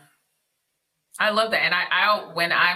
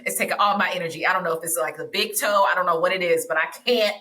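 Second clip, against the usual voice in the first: exhausted, half asleep; 3 semitones lower than usual. Retold or imitated. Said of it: "being like".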